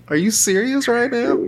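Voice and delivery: high, incredulous confrontation; mock aggressive. Shown as a demonstration. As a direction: challenge them in hammed-up disbelief. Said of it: "comes at you real aggressive".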